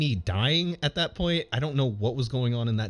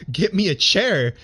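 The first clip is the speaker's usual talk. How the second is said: weak, strained plea, slowed down; mock dying plea; hammed-up plea for a chair; 6 semitones higher, 5 dB louder than usual. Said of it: "in my dying voice".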